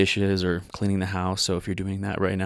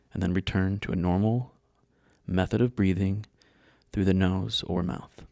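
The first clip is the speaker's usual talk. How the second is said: guided meditation; 2 semitones higher than usual. Real, not acted. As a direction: guide them calmly, leaving space between phrases.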